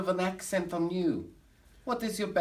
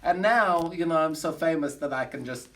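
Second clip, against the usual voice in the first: put-on German accent of a comic showman; fake German accent. Bragging to the audience in a fake German accent. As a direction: camp cabaret star with a fake German accent.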